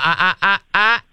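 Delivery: firm warning growl ah ah ah with a laugh. Shown as a demonstration. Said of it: "give her the growl".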